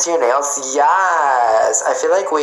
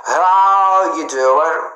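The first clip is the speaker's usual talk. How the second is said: stretched flirty greeting; 3 semitones higher, 3 dB louder, much slower than usual. Shown as a demonstration. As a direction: drag out how you doing. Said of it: "stretched greeting, Joey style".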